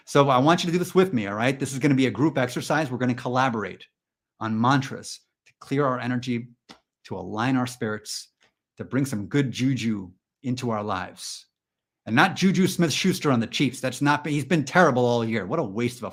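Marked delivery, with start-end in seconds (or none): 1.8-11.4 slow, measured mantra-leader voice; mock-spiritual, unhurried delivery; mock guided meditation. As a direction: ease the group into calm, slowly. Leads a mock mantra exercise.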